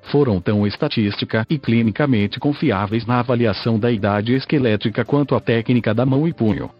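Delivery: robotic text-to-speech voice. Real, not acted. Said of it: "falo através desta voz sintetizada".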